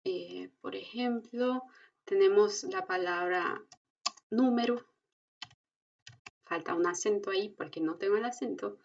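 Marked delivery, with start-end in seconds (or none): 4.3-4.8 "número" ending in u; final O as U. Shown as a demonstration. Teacher shows final O sounding as u. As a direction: say "número" as noo-meh-roo. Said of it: "se pronuncia como una U".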